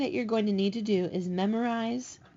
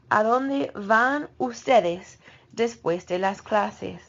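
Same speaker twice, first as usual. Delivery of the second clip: slow model sentence; 3 dB louder, slower than usual. Shown as a demonstration. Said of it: "teacher models a question slowly".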